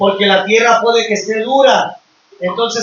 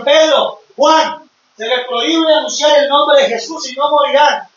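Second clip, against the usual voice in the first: stern shout; 4 semitones higher than usual. Retold or imitated. Authorities forbid preaching Jesus.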